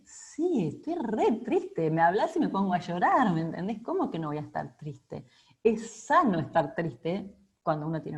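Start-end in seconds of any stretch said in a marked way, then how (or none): 0.0-3.3 mock tearful. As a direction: play the grieving friend on the verge of tears. Tearful reply to false comfort. (queja llorosa actuada, mucho más aguda y lenta)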